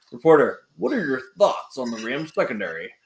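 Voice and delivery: lightly voiced parody news anchor; reporter voice. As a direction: ask it like a TV reporter. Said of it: "That's my reporter voice".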